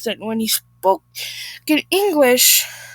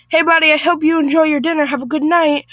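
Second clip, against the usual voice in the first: brisk, higher, friendly call; quick, breezy goodbye; smiling farewell; 4 semitones higher, 4 dB louder than usual. Acted. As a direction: call out cheerily with a smile. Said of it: "perfect English while smiling".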